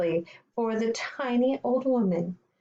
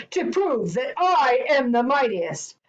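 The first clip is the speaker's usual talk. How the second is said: louder, boastful giant; mild bellow; 3 semitones higher, 5 dB louder than usual. Acted. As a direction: proclaim it like a mighty giant. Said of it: "bellowed the giant".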